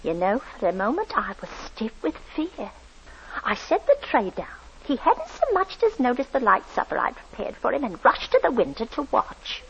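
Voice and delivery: recalling a frightening night. A narrator's reading. Landlady narrates the memory.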